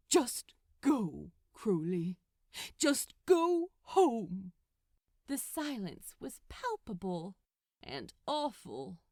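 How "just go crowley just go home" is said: cold dismissal. Acted. Angel sends Crowley away.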